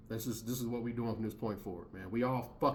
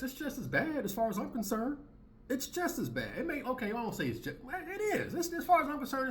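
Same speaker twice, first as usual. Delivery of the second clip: imitating Coach; 7 semitones higher than usual. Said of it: "every time Coach talks like this".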